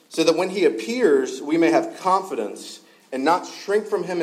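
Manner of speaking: measured, solemn Bible reading; scripture reading. Acted. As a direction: pastor reading scripture aloud to the congregation, solemn. Reads scripture passage aloud.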